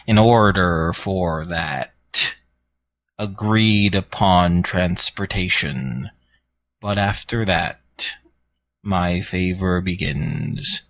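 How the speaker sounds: slow, measured villain's bargain; Tyrath speaking. Acted. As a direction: lay out the terms slowly, with weight. GM voices Tyrath's reply.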